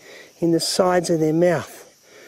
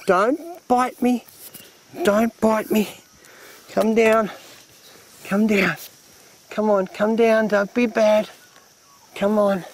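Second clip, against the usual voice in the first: coaxing warning; 4 semitones higher than usual. Real, not acted. Coaxing snake, warning not to bite.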